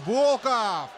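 excited. Real, not acted. Attack on goal called out.

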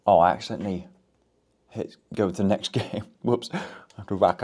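biting on a stick; talking around chewed wood; wooden stick in mouth. Real, not acted. Seen 1: Wooden stick held at lips and bitten, on and off, while talking.

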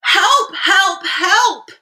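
high-pitched calls for help; little truck's cry. A narrator's reading. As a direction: cry out urgently as a small stuck truck. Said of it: "cried the little blue truck".

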